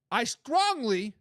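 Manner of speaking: "strongly" drawn out slow with weight; slow, heavy emphasis on "strongly"; stress on strongly. Retold or imitated. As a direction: lean hard on "strongly", slowly. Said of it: "she puts the emphasis word on the strongly".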